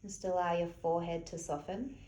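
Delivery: soft, unhurried meditation-teacher voice; softly spoken, spacious relaxation cues; guided relaxation. Real, not acted. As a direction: gently guide them to relax, leaving long pauses. Leads a gentle relaxation.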